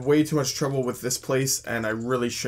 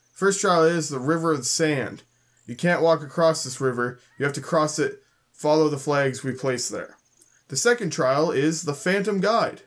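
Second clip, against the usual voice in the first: reading NPC lines aloud. Acted. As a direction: read it out like the gate guard explaining the trials. Reads guard dialogue slowly.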